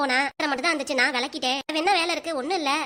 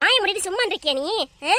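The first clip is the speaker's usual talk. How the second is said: raised, threatening rebuke; angry scolding. Acted. Mother silencing child who answers back, angry and threatening. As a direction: cut the child off with angry orders.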